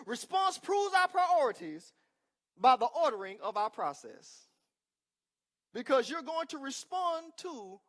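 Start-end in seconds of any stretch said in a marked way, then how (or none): 0.1-4.5 loud, slow, preached emphasis; shouted repeat. Real, not acted. Preacher shouting his point again to the congregation. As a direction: shout it out one more time to the church. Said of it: "Let me say it one more time".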